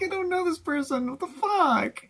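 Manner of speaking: high-pitched comic disbelief; mock bafflement. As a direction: send the voice way up in feigned bewilderment. Acts out own baffled reaction.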